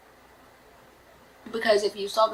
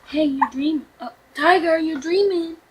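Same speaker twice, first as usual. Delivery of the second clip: mock soothing; 6 semitones higher than usual. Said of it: "I remember this now".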